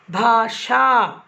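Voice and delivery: भाषा drawn out slowly with clear श; correct form. Shown as a demonstration. Teacher shows students the correct भाषा spelling. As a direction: stretch भाषा, stressing the श sound. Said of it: "second शा लिखना".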